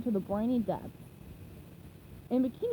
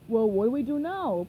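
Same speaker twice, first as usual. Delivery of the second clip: innocent; 5 dB louder than usual. Acted. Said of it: "Plankton asked innocently".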